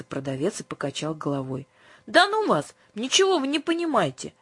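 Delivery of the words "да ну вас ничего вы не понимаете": put-on much higher, louder childish huff; offended outburst. A narrator's reading. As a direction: snap back, hurt and annoyed. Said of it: "обиделась Юлька". (обиженно, резко выше)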